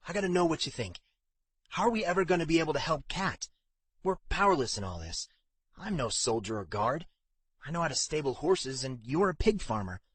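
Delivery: a hint of a fretting friend confiding; lightly acted frustration, pitch lifted; worried young stable hand. Narrator voices worried Strom.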